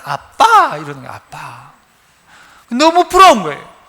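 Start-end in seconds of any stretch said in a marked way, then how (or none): 0.0-0.8 put-on child calling dad. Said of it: "서울에 사는 애".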